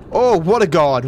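loud exultant oh; triumphant cheer. Real, not acted. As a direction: crow over the jump. Landing the jump.

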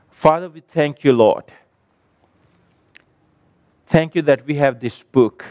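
measured prayer with long pauses between phrases; real closing prayer. Real, not acted.

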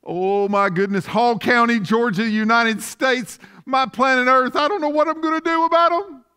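lightly hammed-up anxious God; mock fretting God. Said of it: "Is God up in heaven going".

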